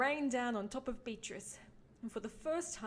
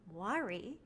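teasing dad; 5 semitones higher, 4 dB quieter than usual. Acted. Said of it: "he said with a smile".

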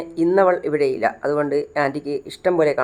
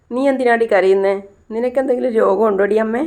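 higher-pitched, pushy questions; lightly hammed-up demand, pitched up; acted brusque questioning; 5 semitones higher than usual. Disturbed daughter asking her crying mother why, brusque questioning.

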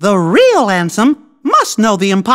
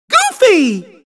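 calling out; 7 semitones higher than usual. Acted. Character calls out to friend.

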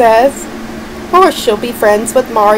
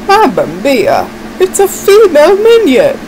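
Mario voice; 4 semitones higher than usual. Acted. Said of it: "It's me, Mario".

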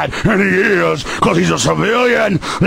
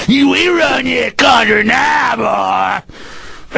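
cop sneer; much slower than usual. Retold or imitated. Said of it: "that's an imitation of 'em".

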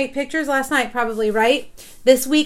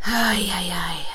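whispered, lower ay ay ay; weary whisper; 5 semitones lower, 3 dB quieter, slower than usual. Real, not acted. Mom lamenting her daughter's cough, whispering dismay. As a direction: breathe out a tired groan of dismay. Despairing over getting flu.

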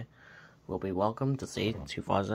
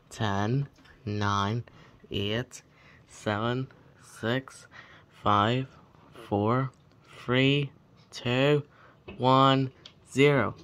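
counting down, getting louder; new year countdown crowd; 5 dB louder, much slower than usual. Real, not acted. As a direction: build the countdown to a cheer. New Year countdown, building loud.

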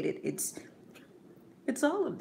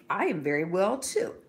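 a hint of a gentle mother, different timbre; lightly voiced mother; 2 semitones higher, 3 dB louder than usual. Mother reassuring her young son, lightly voiced.

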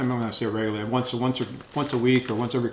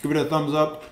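talking through a mouthful of chips; mouth full; 2 semitones higher than usual. Real, not acted. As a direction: speak around a bite, still chewing. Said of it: "talking my mouth full".

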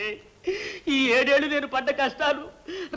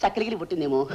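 mock giggling; 6 semitones lower, 3 dB quieter, faster than usual. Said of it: "అని నవ్వింది".

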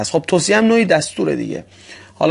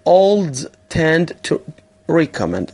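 slow model reading; much slower than usual. Shown as a demonstration. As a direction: drag the verse out so they can copy. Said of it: "تکرار بفرمایید". (خواندن آهسته برای تکرار)

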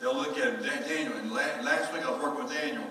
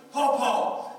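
put-on excited child's call; 11 semitones higher, 8 dB louder than usual. Granddaughter calling out.

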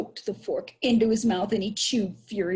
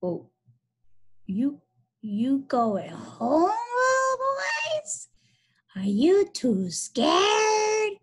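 put-on high, loud singsong girlish call; shrill girlish voice; 12 semitones higher, 3 dB louder, much slower than usual. Billy taunting fleeing boys from a stump, shrill girlish. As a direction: trill it slowly, stretching the ends. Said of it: "in a shrill, girlish voice".

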